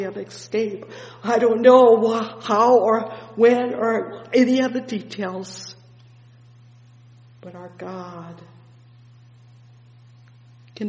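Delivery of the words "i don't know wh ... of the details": louder, ringing sermon build; full-force gospel preaching; fervent preaching. Acted. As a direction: preach it out with rising fire. Preacher surges.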